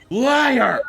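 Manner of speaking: screamed accusation, very high and loud; a full-throated yell of betrayal; furious shout. Acted. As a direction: hurl the word at him.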